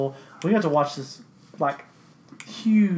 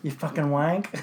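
put-on English accent; slower than usual. Mocking English insult.

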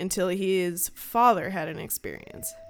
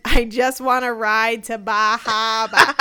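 ghost woman pleading; 2 semitones higher, 6 dB louder than usual. Retold or imitated. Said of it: "and she says".

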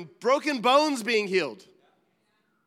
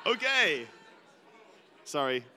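laughing apology; 5 semitones lower than usual. Real, not acted. Laughing apology after friend's story.

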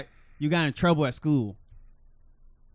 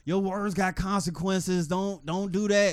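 slow quoting; 3 semitones higher, much slower than usual. Retold or imitated. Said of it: "he said it too".

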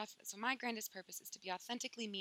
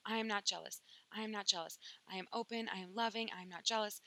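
mock affirmations. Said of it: "let me say some affirmations".

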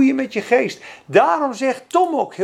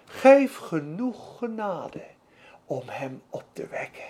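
humble prayer; 7 semitones lower, 5 dB quieter than usual. Retold or imitated. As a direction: let the plea shrink to almost nothing. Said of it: "Hij zegt eigenlijk".

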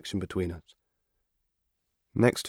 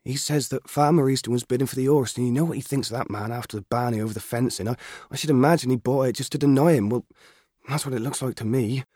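higher, louder country mother telling him off; mother scolding her son, stern; 4 semitones higher, 4 dB louder than usual. Acted. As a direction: warn the boy firmly. Mother explains father's purchase.

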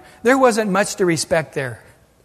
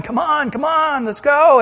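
higher, eager urging shout; urging men; 7 semitones higher than usual. Retold or imitated. David's four hundred men urging him on, high and eager. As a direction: push them forward impatiently. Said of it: "four hundred guys behind going".

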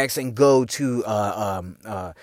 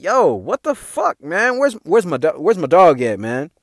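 baffled; 2 semitones higher than usual. Retold or imitated. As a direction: demand where your buddy went. Searching for friend at closing.

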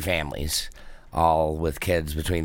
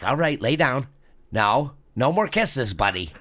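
talking to a dog; 7 semitones higher than usual. Retold or imitated. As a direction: settle a dog down.

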